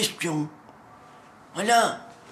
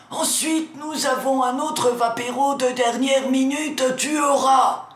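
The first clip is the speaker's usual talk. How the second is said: sudden shout; 3 semitones higher than usual. Acted. Bursts out then tells himself calm.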